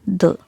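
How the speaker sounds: short "the" said as "thuh"; weak form of the. Shown as a demonstration. Teacher models the before a consonant, short "thuh". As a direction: say "the" with a brief schwa vowel. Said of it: "how will you pronounce it".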